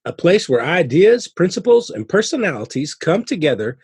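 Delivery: polished announcer welcome; podcast intro read. Real, not acted. Host welcomes listeners to a family ministry podcast, announcer read. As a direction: welcome listeners with punched key words.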